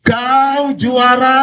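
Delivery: high, very slow answering call; imitated echo. Mountain answers the father's second shout, imitated echo. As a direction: draw it out as a returning echo. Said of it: "Sana jawab".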